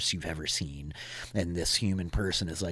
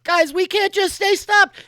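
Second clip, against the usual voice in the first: high, loud urgent call; Lux's voice; 14 dB louder than usual. Acted. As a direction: urge the crew to move. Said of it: "you hear Lux like".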